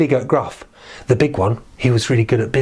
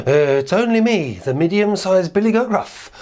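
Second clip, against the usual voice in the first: medium billy goat; 6 semitones higher than usual. Acted. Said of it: "was a bit scared".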